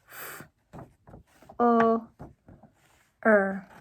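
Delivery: L, U, O, K spoken one letter at a time with pauses; sounding out letters. Shown as a demonstration. Teacher sounding out look for students, letter by letter. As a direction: slide through each letter of look slowly. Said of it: "The next one is for".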